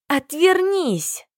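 high drawn-out squeal on "Отвернись". Acted. Heroine squeals at groom to turn away, high. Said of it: "взвизгнула".

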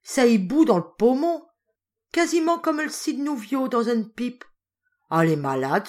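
loud, high rustic peasant voice, fretting; a Norman farmer alarmed over his beast; anxious farmer calling for the maid, loud and rustic; worried farmer. A narrator's reading. Farmer frets over the sick cow.

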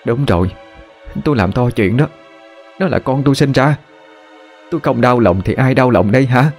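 angry retort. Acted. Wife hitting back at her husband over their son, hurt and angry. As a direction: throw his words back at him.

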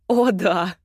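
drawn out. Acted. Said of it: "протянула Агата".

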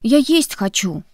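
slow, drawn-out whiny complaint; mock plaintive drawl; plaintive whine. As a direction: whine like a hungry kid. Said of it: "жалобно протянул Коннор".

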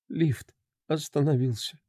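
quiet, struggling woman's voice; strained confession. Acted. A woman admits to the inspector, quiet and strained. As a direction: force each word out with effort. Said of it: "с трудом сказала она".

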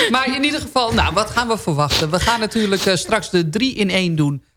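talking round a borrelnoot; mouth full. Real, not acted. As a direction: cheeks stuffed full, chewing. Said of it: "Ja, ik heb mijn mond vol".

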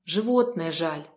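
plain reading voice

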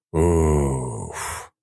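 drawn-out relieved "oof"; long exhale. A narrator's reading. Narrator winding down after the ordeal, long exhaled oof. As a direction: let out a long, low-key sigh. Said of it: "протяжно выдохнул я".

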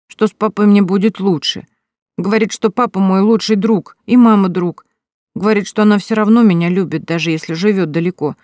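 a hint of an earnest small boy asking; little boy Pashka.

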